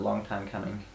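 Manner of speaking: low, hushed retold murmur; imitated whisper. Recounting a whisper heard in an unconscious dream, mock whisper. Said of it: "someone whispers something about".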